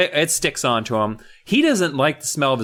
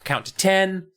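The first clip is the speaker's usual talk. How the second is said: put-on raised, thin voice of a kid turned old man; old man Steve; 6 semitones higher than usual. Steve talks himself into pulling the mask off, high, thin voice. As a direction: reassure yourself it's only a snug mask. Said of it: "He says".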